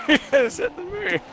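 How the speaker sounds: P=A; drawn-out protest. Real, not acted. Repeats his protest, drawn out.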